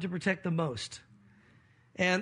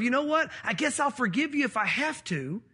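grudging forgiveness; 2 semitones higher than usual. Retold or imitated. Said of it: "It wasn't a matter of".

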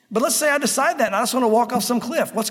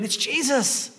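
high-pitched pleading at the screen, without real volume; half-shouted mock frustration, pitch climbing; mock exasperated yell; 6 semitones higher than usual. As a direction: act out yelling at the TV. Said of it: "you just wanna yell at the screen".

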